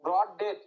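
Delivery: ব্রড and ডেথ both stressed; stress on both words. Shown as a demonstration. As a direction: put equal weight on ব্রড and on ডেথ. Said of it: "দুটো important word আছে কিনা".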